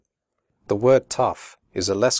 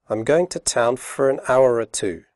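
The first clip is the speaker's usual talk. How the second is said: quickly; 3 semitones higher than usual. Shown as a demonstration. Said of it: "first slowly and then quickly".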